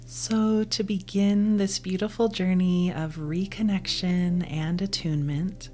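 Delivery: soothing, measured meditation voice; guided meditation. Acted. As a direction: ease the listener inward, unhurried, letting each phrase settle.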